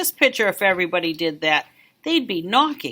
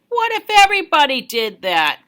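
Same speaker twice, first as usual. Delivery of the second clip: higher scold ending in a sharp huh; stern teacher; 7 semitones higher than usual. Acted. Recess teacher scolding the kid, higher and stern. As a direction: scold the snowball thrower. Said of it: "He said".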